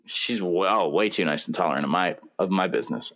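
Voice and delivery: talking between sips of coffee; words around a sip of coffee; sipping coffee. Real, not acted. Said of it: "sorry, I'm drinking coffee".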